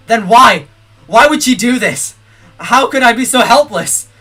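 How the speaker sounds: measured dramatic reading of the text; game monologue read. Acted. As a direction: read the grief of the hero out.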